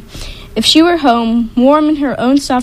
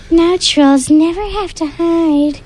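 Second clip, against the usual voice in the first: high, slow crowing troll; high slow gloating troll; 6 semitones higher than usual. Acted. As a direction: crow it out in triumph. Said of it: "crowed another".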